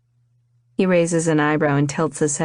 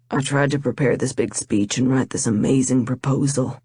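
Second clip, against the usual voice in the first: a lower male voice, sincere and earnest; lightly voiced lover proposing; 3 semitones lower than usual. Vaughn proposing to Rain at the wedding, lightly voiced sincere man. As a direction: pour your heart out as the man proposing.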